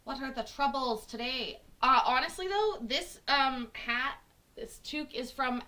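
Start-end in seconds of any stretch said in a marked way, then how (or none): 0.0-1.6 lightly done Scottish lilt; Scottish accent. Acted. Streamer retrying her lass line, light Scottish accent. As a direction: try the question in a Scottish accent. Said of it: "my Scottish accent needs help".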